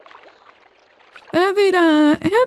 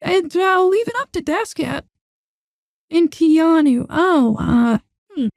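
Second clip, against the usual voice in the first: voice changer. Real, not acted. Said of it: "turn off the voice changer".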